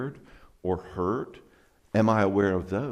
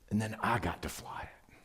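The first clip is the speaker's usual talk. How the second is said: heartfelt abiding version. Shown as a demonstration. Retelling flying with dad to feel the heart, hushed and heartfelt. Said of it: "Here's the abiding version of the same story".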